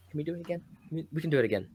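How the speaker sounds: put-on Aleister Black's Dutch accent. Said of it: "but in, in his Dutch accent".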